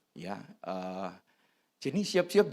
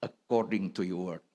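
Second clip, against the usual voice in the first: humble acceptance; 5 semitones lower, 4 dB quieter than usual. Retold or imitated. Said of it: "ketika dia menerima".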